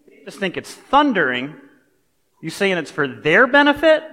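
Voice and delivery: incredulous questioning. Retold or imitated. Pastor voicing a puzzled listener questioning Jesus, incredulous and rising. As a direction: press him like a confused disciple who can't make sense of it.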